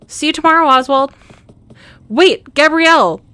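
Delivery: high shout after her; calling out loud. Real, not acted. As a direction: call out to stop her.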